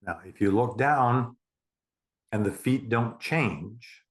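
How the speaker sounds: measured meditation countdown, long gaps between steps; guided meditation. Acted. Therapist counting a client down twenty stairs, guided meditation. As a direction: guide them down step by step, unhurried.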